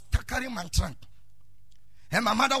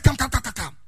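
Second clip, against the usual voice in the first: senior ordering; 3 semitones higher, 10 dB louder than usual. Retold or imitated. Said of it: "He said".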